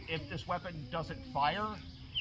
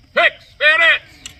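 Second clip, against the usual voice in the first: rough period soldier drawl; 11 semitones higher, 18 dB louder, much slower than usual. Acted. Drill command, drawn out.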